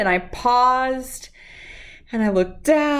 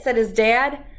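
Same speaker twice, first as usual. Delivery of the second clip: gentle, lively storybook reading; reading to children. Acted. Reading Jabari Jumps aloud to children, storybook voice. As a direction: read the picture book to the kids. Reads picture book aloud.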